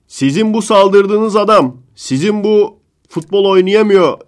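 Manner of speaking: high, loud, slow insistence; mock impassioned rant. Pundit scolding Arda's critics, slow loud outrage. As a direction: drag every word out in outrage.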